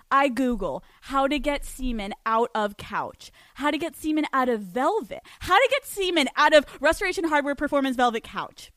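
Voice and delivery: mock-frantic build to "Velvet Couch"; escalating searches. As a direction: start measured, build on each repeat.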